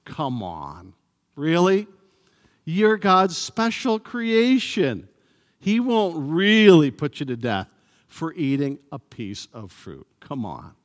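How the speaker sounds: mocking, coaxing disbelief, rising on "really"; sarcastic serpent. Serpent teases Eve that God won't punish her, mocking. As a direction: tempt her with scornful doubt. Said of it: "He's saying, in essence".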